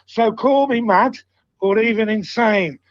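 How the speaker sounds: measured verse with pauses between lines; poem recitation. Acted. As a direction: recite a homemade football poem in steady rhythm. Reads own poem to friends.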